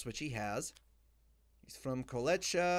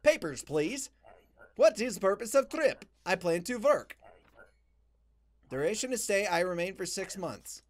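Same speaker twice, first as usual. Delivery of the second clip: lightly put-on Slavic checkpoint voice; play-acted Slavic accent; mock Eastern European accent. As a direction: read it as an Eastern European inspector. Voices inspector and traveler dialogue.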